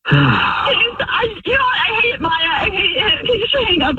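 high, tearful shout breaking through; crying and shouting. Real, not acted. Wife yelling through tears at her cheating husband. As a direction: let the hurt spill into a crying yell.

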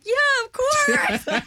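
high, slow, laughing overbright "yeah"; hammed-up fake certainty; fake confident yes. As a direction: bluff it with a big fake smile. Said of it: "I was like".

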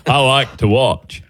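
Forrest Gump. Pretend. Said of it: "What am I, Forrest Gump".

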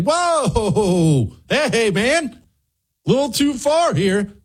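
lightly voiced easygoing guy pushing back; mock mild objection.

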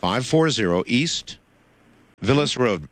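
measured, deliberate address reading; slow dictation. Real, not acted. Host giving caller the mailing address, slow dictation. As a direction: spell it out for someone writing.

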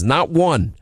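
ordinary talk, nothing marked

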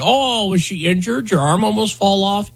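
high-pitched mock concern. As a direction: imitate someone jeering with fake sympathy. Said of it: "people started mocking her".

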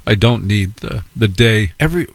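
normal talking voice

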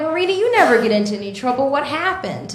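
fast, prim, mildly concerned principal; white voice. Retold or imitated. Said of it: "I'm gonna use my white voice".

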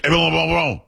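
Evian Le Bon said the French way, nasal and run together as "Evl'Bon"; French accent. Shown as a demonstration. Host shows co-host the French way, in a French accent. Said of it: "But if you say it in French".

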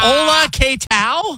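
high, slow mock Spanish greeting; mock Spanish accent. Host greeting teammates in a hammed-up high, slow Spanish accent. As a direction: ham up a Spanish accent for laughs. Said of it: "put on a sombrero".

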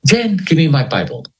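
mild mock yell for the Bible; a hint of a desperate shout; retold scream. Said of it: "I screamed".

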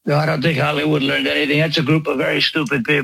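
rambling mock-presidential boast; lightly voiced Trump parody; Trump impression. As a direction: riff like a bragging president.

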